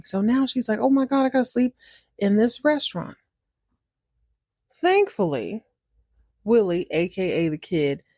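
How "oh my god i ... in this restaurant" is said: higher-pitched acted dismay; lightly exasperated retold realisation; mock dismay. Val learns she's stuck there overnight, mock dismay.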